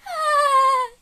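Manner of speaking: high, long "ah" in play; high mock cry. She reacts to the sweet talk, high playful cry. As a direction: cry out high without shouting.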